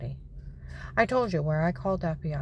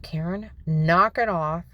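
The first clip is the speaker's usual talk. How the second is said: stern dad warning; 3 dB louder than usual. Retold or imitated. Dad telling his crying five-year-old off, stern warning. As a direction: warn the child like an angry dad. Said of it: "He's like".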